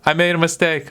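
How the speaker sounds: lightly voiced, unbothered grandma; imitated grandma. Grandma admitting her slip to the family, lightly put-on voice. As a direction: own up airily, as grandma would. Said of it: "She'd be like".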